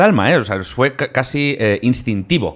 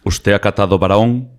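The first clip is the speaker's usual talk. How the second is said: Jesús Quintero; 2 semitones lower than usual. Acted. Guest imitating a master of silence, inflected interviewer voice. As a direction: pose the question with weighty inflections. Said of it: "el rey del silencio era Jesús Quintero".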